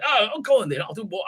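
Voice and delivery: badly faked Scottish accent; attempted Scottish accent. Actor agreeing to return, in an attempted Scottish accent. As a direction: have a half-hearted go at Scottish. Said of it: "I can't do a Scottish accent".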